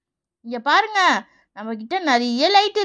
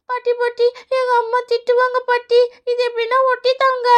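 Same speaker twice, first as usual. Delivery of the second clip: put-on anxious childlike begging, pitched up a little; pleading child; 3 semitones higher than usual. Child afraid of mother's scolding, pleading. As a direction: beg grandmother in a little voice.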